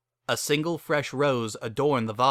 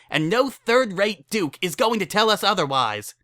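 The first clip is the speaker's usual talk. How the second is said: higher, firm, defiant voice; defiant Lyra; 8 semitones higher than usual. Acted. Lyra defying the nobility, high and defiant. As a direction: insist it will happen. Lyra's angry rant.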